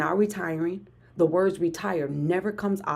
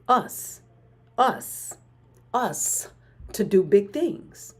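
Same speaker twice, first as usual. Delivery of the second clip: rallying cry; 3 semitones higher, much slower than usual. Real, not acted. Rallying her livestream viewers, a slow building hype chant. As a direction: hype the crowd up, us by us.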